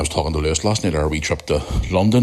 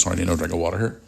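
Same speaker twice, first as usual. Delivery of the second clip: croaky morning voice; rough croaky voice; 3 dB quieter, much faster than usual. Real, not acted. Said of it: "Got that old morning croaky voice".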